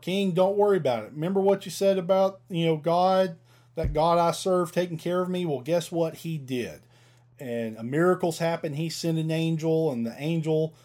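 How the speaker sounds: lightly voiced Daniel, reassuring the king quickly; cheerful Daniel.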